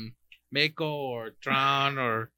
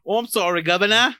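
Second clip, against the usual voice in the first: hammed-up British apology; cheeky fake-British apology; mock British accent; 4 semitones higher, 5 dB louder than usual. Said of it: "He sounded Aussie, not British".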